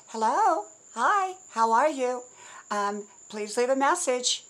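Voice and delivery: a light, upbeat answering message; upbeat phone greeting. Retold or imitated. Friend's new answering message, mildly upbeat. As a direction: sound bright and positive on the greeting. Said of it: "with an upbeat, with an attitude".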